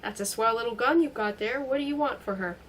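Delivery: a lightly voiced tough guy from old films; movie gangster imitation. Cornered man mocking his captor as a movie hoodlum, lightly voiced. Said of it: "now imitating the underworld numbskull of movies".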